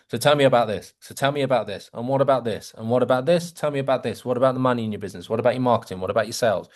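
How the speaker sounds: every question in the same flat falling tune. Shown as a demonstration. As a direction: interrogate on one repetitive note. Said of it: "Same tone, same tone".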